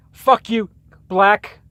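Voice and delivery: a high, loud mock yell out the cab window; retold yell. Taxi passenger yells at a man on the sidewalk, mock yell.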